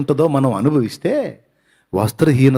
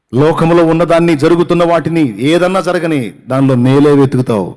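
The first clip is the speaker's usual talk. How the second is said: fervent preaching; 2 semitones higher, 5 dB louder than usual. Acted. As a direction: urge them not to fear. Preacher exhorting over music.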